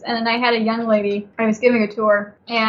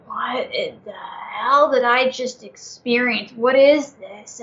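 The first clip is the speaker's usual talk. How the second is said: stunned disbelief; slower than usual. Retold or imitated. Retelling shock after feeling a ghost.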